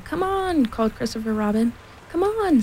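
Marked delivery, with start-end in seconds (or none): 0.0-0.7 high, mild narrated shout; calling out. A narrator's reading. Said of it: "There was a shout". 2.1-2.6 high-pitched echoed call. A narrator's reading. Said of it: "said Pooh and Piglet".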